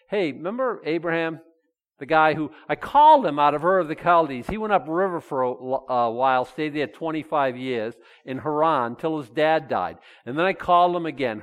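lightly voiced God telling Abraham's story; voicing God. Pastor voicing God recalling calling Abraham.

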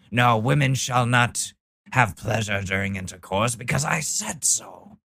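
lightly voiced pompous zealot, stretching the ending; hint of a self-righteous preacher; mock religious decree. Mocking religious man's decree.

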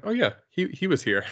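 surprised oh yeah. Retold or imitated. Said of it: "I'm like".

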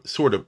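"sort of" restated as a deliberate hedge; stress on sort of. Real, not acted. Lecturer flagging his own qualifier, light stress on "sort of". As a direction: give "sort of" a light, careful emphasis. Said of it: "I emphasize the word sort of".

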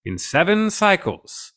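slow, grand, drawn-out decree; slow godlike voice. Retold or imitated. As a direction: intone it like an alien god. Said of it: "but he's like".

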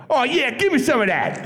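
mock seductive line through laughter; cheesy come-on. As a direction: lay on the smarmy come-on. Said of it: "I went".

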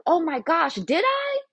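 put-on very high, startled girly voice; flustered white girl. Jenny caught by her coworker, high flustered gasp. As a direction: squeak it out like she's caught red-handed.

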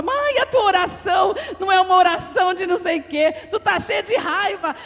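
light, comic mock complaint; imitated scolding daughter. Daughter telling mother about her prayer, mock scolding. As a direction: mimic an exasperated daughter, amused. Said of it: "Ela ficava".

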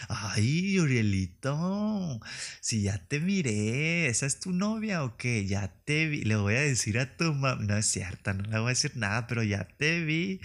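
sing-song mocking taunt; teasing kid voice. Kids teasing Urielito about a girl, singsong taunt. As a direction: tease a kid about his crush.

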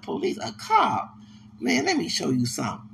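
a hint of a tipsy stranger showing off; quoting drunk dude. Drunk man quoted showing bag.

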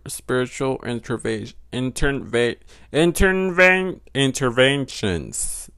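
"interventions" sounded out slowly in broken attempts; struggling accented pronunciation. Real, not acted. Vlogger reading with an accent, struggling to pronounce "interventions". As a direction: stumble and drag your way through "interventions". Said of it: "Do you hear my fucking accent?".

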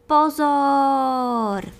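a small ant's high, loud shout of warning; warning call. Acted. Ant on the anthill warning everyone, loud and high. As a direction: call out pozor from afar. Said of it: "Najednou se ozvalo zvolání".

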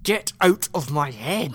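slow, loud yell; desperate shout. Acted. Seth yelling at the AI in his mind, desperate shout. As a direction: drive the voice out of your head.

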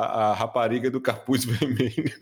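title breaking into a laugh; amused laughing. Real, not acted. Co-host recalling the Portuguese film poster, laughing. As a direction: let laughter creep into the words.

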